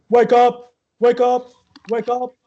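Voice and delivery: high, loud, annoying nagging; irritating voice. Acted. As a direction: pester a sleeper with loud, repeated high calls. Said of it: "it's just this very irritating, annoying voice".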